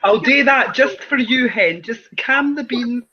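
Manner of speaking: put-on Glaswegian accent, teasing; Glasgow accent. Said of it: "put on my Glaswegian accent for you".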